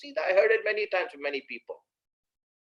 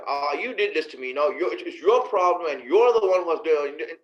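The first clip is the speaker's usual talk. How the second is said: casual blaming rant, getting louder; imitated rough complaint; 4 dB louder than usual. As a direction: mimic a man carelessly scolding, building in force. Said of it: "He's talking like that, like random talk".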